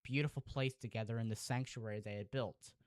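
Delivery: emotional storyteller narration; story narration. Acted. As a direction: tell it like a sad legend. Reads his story aloud.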